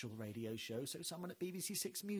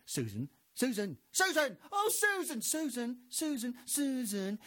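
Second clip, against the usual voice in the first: insistent calling; 8 semitones higher, 8 dB louder than usual. Retold or imitated. Voices in Susan's head calling her endlessly. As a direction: keep calling her name. Name called in your head.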